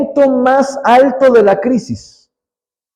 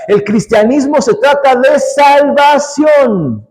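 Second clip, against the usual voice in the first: slow ringing shout landing hard on "salvación"; preaching shout; 5 semitones higher, slower than usual. Acted. Preacher repeating his point to the church, shouting it out. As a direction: cry it out as the sermon's peak.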